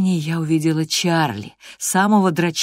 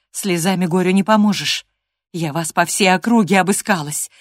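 louder, building reproach; scolding nanny; 4 semitones higher, 5 dB louder than usual. Acted. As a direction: tell the naughty girl off properly. Nurse scolding the girl.

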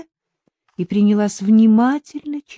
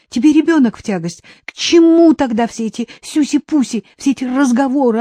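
higher and louder, accusing tirade; furious shouting; 6 semitones higher, 4 dB louder than usual. Acted. Woman shouting at the man over her son, furious. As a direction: hurl every question at him in outrage. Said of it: "её крики пошли на убыль".

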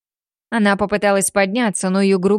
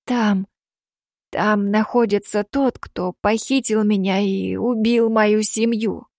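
slow, broken-voiced rasp; hoarse rasp; slower than usual. Girl rasping to Dmitry about the killer, slow and hoarse. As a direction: her voice gone, pushing the words out. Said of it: "Голос сорвался, поэтому она просипела".

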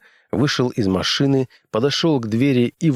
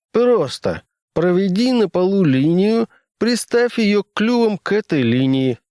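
character voice; 11 semitones higher, 3 dB louder than usual. Acted. Fredericks voiced by narrator.

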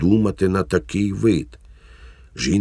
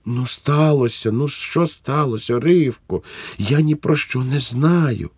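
bewildered pleading; 8 semitones higher than usual. Acted.

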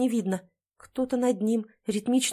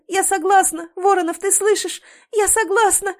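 high and loud, breaking with tears; wife crying out her yes to her dying husband; desperate sobbing cry; 10 semitones higher, 7 dB louder than usual. A narrator's reading. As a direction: scream the yes so he hears it. Crying acceptance to dying man.

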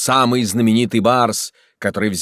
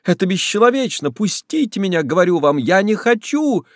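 desperate plea; 9 semitones higher than usual. A narrator's reading. Woman struggling, pleading.

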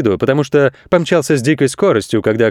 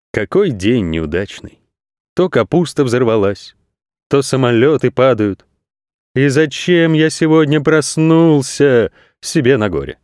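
gloomy lament. Acted. Goat thinking sadly about his unlucky day. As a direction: moan about your rotten luck. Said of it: "смотрел на жуликов с тоской".

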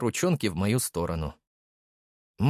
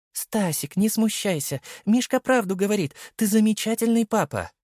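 high affectionate wife; 12 semitones higher than usual. Acted. Wife reassures her blushing husband, high and fond. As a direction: coax him kindly, like a proud wife.

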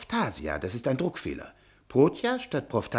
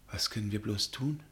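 unvoiced, hushed; whisper; 5 semitones lower, 6 dB quieter than usual. Professor whispering to Magda, frightened. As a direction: whisper so no one hears.

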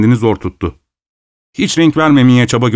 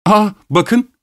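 feigned surprise; 9 semitones higher than usual. Acted. Host diverting guest's attention.

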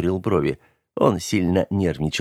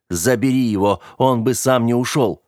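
urgent order; 3 semitones higher than usual. Acted. Скэрилл торопит под обстрелом.

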